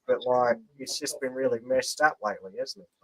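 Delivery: put-on Australian accent, chatty. Shown as a demonstration. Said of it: "Bit of Australian for you there".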